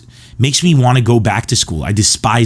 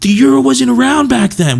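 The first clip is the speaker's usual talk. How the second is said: exasperated teacher; 14 semitones higher than usual. Retold or imitated. Teacher correcting pranking students, high and exasperated. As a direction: explain it through gritted teeth like a tired teacher. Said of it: "he, we just like".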